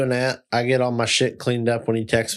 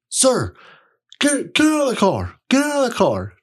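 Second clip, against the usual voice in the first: imitated cop order; 12 semitones higher, 3 dB louder than usual. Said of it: "'cause it was a deep voice".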